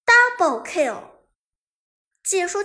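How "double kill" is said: lightly voiced game announcer call. A narrator's reading. Game voice marking a double kill, announcer style. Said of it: "双杀的音效出现".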